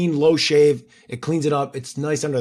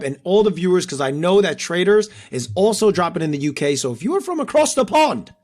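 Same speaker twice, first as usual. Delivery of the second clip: mock English accent, pitched higher, a Scottish and Irish mix; bad English accent; 5 semitones higher than usual. Co-host greets UK viewers in a hammed-up English accent. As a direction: put on a clumsy British accent for UK viewers. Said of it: "That was a horrible English accent".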